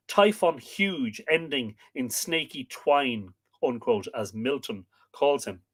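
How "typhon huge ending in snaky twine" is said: slow, weighty line of poetry; quoted verse. Acted. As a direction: savour the quoted line slowly. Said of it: "Uh, quote".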